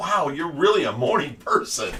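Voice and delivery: ordinary talk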